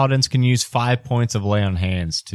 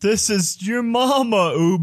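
annoying mama voice; 10 semitones higher than usual. Acted. Ubo's mama introducing herself to her child, high and annoying. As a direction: announce yourself in a silly high falsetto. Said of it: "is that the new annoying voice?".

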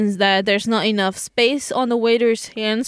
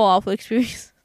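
breathy whisper of disgust. Real, not acted. Telling friends about the restaurant, whispered. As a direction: drop to a whisper on the last words. Recalling bad restaurant visit.

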